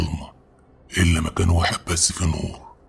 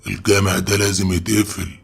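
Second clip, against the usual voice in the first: agitated refusal, pitched a bit up; angry; 3 semitones higher than usual. Acted. Sheikh forbidding young men to stay overnight, angry. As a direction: refuse firmly, worked up and insistent. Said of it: "الشيخ وقتها اتعصب وقال لنا".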